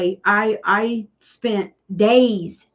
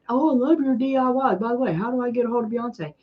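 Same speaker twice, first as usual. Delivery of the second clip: mock spam commenter; 4 semitones higher, faster than usual. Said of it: "why would you do that".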